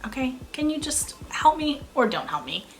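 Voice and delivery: hushed, irritated whispered reprimand; exasperated whisper. Retold or imitated. Whispering to a creepy worker, irritated and fed up. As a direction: whisper it like you're fed up with him.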